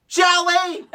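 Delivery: high laughing squeal; imitating Pee-wee. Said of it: "He's like".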